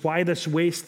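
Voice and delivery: indignant objection. Retold or imitated. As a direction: toss it out as an accusing complaint. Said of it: "they say".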